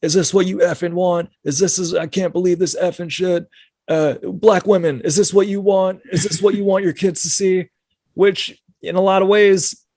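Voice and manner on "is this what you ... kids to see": put-on very high, high-pitched screaming rant. Speaker describing a viral video of a man, imitating him screaming. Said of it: "He's like just screaming at it".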